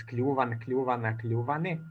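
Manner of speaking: "kljuvan, kljuvana" stressed on the stem klju-; stem accent in singular. Shown as a demonstration. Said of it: "accent on the stem in the singular".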